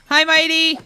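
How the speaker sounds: high and loud, bright hello; loud cheerful welcome; excited greeting. Real, not acted. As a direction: call out a happy hello to a friend arriving. Greeting a viewer who joins.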